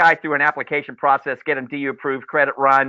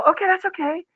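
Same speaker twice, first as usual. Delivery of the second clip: forgiving himself. Retold or imitated. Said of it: "And I go".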